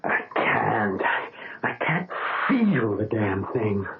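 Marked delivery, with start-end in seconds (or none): 1.0-3.8 rising, anguished protest that slows to a halt; pleading that it was all for nothing; despair. Acted. Patient despairs over numb hands.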